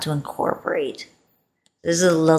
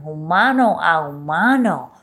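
Spanish. Shown as a demonstration. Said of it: "human to human".

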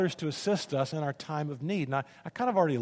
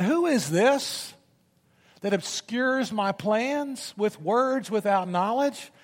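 slow, higher, booming sarcastic challenge; God's sarcasm; 6 semitones higher, slower than usual. Acted. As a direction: voice God mocking Job, drawn out. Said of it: "I love God's sarcasm".

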